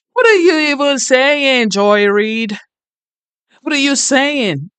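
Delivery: high-pitched, drawn-out disbelief; incredulous. Real, not acted. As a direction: exclaim it high, baffled by what you heard. Exasperated reaction to the played speech.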